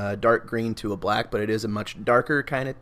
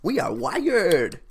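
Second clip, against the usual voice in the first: high, slow, giddy fish voice; excited fish voice; 12 semitones higher, slower than usual. Retold or imitated. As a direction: squeal it like a buzzed fish.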